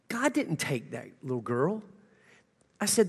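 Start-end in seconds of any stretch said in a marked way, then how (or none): 0.1-1.8 quiet, gentle and sinking; hushed and low; soft retelling. Retold or imitated. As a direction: say it low and tender to a grieving woman. Tells grieving lady, softly first.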